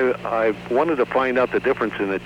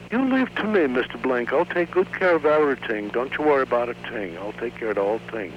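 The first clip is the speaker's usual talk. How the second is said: gay Jewish repairman; 3 semitones higher than usual. Retold or imitated. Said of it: "the gay boy. Uh, his name was Mister Chernoy".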